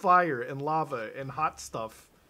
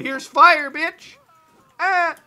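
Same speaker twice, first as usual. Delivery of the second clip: loud, high battle shout; triumphant yell; 12 semitones higher, 15 dB louder, much slower than usual. Real, not acted. Gamer attacking a monster with fire, loud high shout. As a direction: holler it as you attack.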